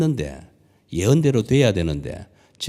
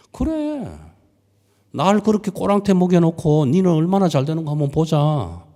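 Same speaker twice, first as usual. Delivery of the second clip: spiteful grumble; 6 semitones higher, 4 dB louder than usual. Acted. Sulking Jonah's spiteful vow.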